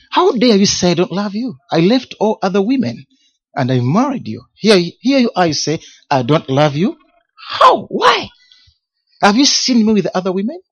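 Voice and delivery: indignant, pitch jumping up on How and Why; re-live the hurt fury of being called unloving; furious retort. Retold or imitated. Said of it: "I was so furious".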